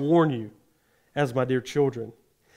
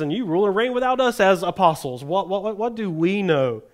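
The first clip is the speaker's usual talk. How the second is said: sarcastic; 3 semitones higher than usual. Retold or imitated. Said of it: "Totally sarcasm. So I want you to listen to his tone".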